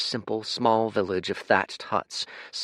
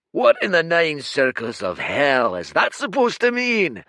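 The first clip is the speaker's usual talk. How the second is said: booming creature; 10 semitones higher, 8 dB louder than usual. Acted. Red giant bellowing at the rowing stranger, furious roar.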